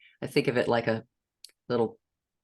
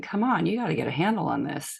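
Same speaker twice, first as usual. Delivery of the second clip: mean dictator voice; 4 semitones higher, faster than usual. Retold or imitated. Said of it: "that mean dictator voice".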